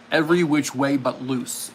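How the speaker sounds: 2 a light put-on voice for the title; 3 say the title like a famous actor would, lightly; 1 movie title impression. 4 to the audience, guessing a movie title: light put-on voice. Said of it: "I can do this one with an impression".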